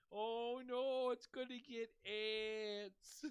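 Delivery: put-on high, slow drunken lament; Pickles. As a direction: wail loudly with drunken stretched words. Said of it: "it's Pickles drunk at".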